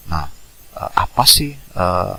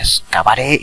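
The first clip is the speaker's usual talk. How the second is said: higher, louder anime-style call; character shout; 6 semitones higher, 6 dB louder, slower than usual. Shown as a demonstration. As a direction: demonstrate a signature battle cry. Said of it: "kayak teriakan misalnya". (teriakan khas tokoh)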